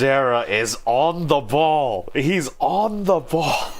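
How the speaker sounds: amused praise. Real, not acted. Amused comment on game character.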